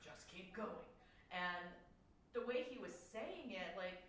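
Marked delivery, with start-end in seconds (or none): 0.1-0.9 put-on a lightly gravelly, quiet old man's voice. Imitating the ghost's gravelly voice for the team. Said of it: "I can probably do it right now".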